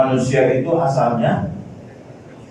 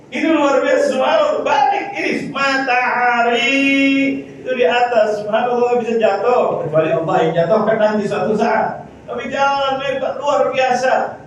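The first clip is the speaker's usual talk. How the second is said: raised-pitch sermon exclamation; preaching in wonder; 7 semitones higher than usual. Real, not acted. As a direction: marvel aloud at creation.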